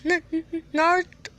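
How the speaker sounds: high, halting stutter on the first sound. Acted. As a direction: stammer on the N, then finally get the name out. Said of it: "Hinata stutters".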